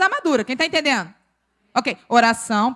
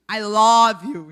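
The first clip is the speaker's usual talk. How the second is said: Bahian accent; 2 semitones lower, 6 dB louder, much slower than usual. Shown as a demonstration. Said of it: "ele não consegue falar".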